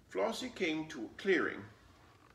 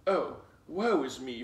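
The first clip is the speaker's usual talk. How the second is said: hollering; 7 dB louder than usual. A narrator's reading. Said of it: "Fox hollered".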